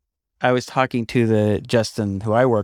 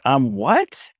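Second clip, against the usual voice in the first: mock disbelief; 4 semitones higher than usual. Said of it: "I'm like".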